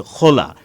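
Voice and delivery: কলা turned into খোলা, kh for k; Sylheti mispronunciation. Shown as a demonstration. Teacher showing how Sylhet speakers say banana, Sylheti mispronunciation. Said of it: "বলে ফেলেন কলাকে".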